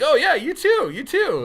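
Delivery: high, gushing reply; loud, thrilled mock farewell; delighted customer.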